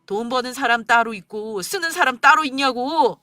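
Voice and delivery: scornful angry rant; husband berating wife over money; bitter berating husband. Acted. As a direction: belittle her.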